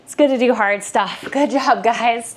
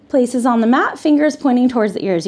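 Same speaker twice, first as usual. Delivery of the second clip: out of breath. Real, not acted. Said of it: "You can tell I'm out of breath".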